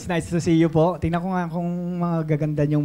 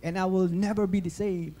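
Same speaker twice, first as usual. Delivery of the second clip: recited Bible declaration, slowing at the end; Joel Osteen; 3 semitones higher than usual. Retold or imitated. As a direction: recite it as a pledge, stretching the final nevers. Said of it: "Tapos sasabihin niya".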